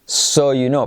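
slow, careful teaching read; half-speed model phrase; slow demo. Shown as a demonstration. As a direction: spell it out slowly for learners. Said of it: "mirad cómo lo transcribo".

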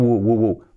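repeated "u, u", a W-like glide; isolated u sound. Shown as a demonstration. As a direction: demonstrate the "u" that opens would. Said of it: "poniendo este u". (sonido "u" aislado y repetido)

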